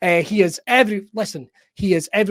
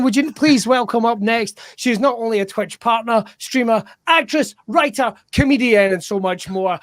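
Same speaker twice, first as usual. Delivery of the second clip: ordinary delivery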